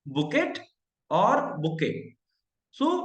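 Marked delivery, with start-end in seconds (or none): 0.1-0.6 बुकेट said with a sounded final t; spelled-out reading. Shown as a demonstration. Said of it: "इसको आप क्या बोलेंगे". 1.6-1.9 बुके said with no final t; correct pronunciation. Shown as a demonstration. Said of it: "इसको आप क्या बोलेंगे".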